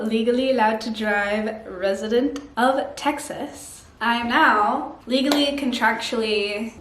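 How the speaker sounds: lightly put-on Texas accent; terrible Texan accent. New resident explaining required outfits, mock Texan accent. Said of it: "this terrible accent".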